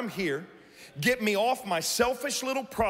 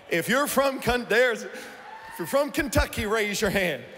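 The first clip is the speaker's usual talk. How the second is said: calling out. Real, not acted. Calling out to the crowd.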